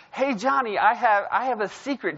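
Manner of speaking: put-on children's pastor calling the pastor's kid up; bubbly teacher. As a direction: sing it out to little Johnny. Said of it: "she goes".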